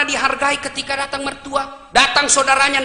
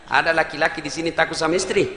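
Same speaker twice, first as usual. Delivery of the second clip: normal talking voice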